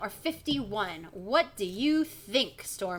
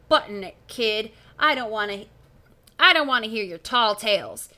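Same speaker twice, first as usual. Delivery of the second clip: gruff cop; 6 dB louder than usual. Acted. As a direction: brush the kid off gruffly. Gruff policeman voice.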